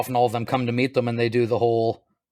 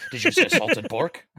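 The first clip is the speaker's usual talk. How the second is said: Gimli impression; 4 semitones higher, slower than usual. Imitating Gimli, laughing.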